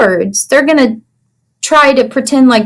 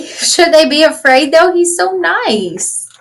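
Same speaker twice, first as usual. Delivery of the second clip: tender aside; 4 semitones higher than usual. Acted. Reader to children, fondly defending Ferdinand. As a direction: coo it fondly.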